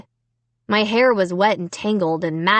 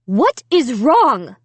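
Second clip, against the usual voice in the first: mild mock scream; 2 semitones higher, 4 dB louder, much slower than usual. A narrator's reading. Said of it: "Alicia's mother was screaming".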